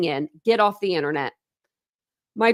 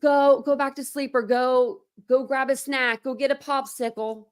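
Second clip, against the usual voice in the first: higher, lightly sing-song mocking mum; mocking Brittany; 4 semitones higher than usual. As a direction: parody her dismissive tone. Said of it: "Brittany says".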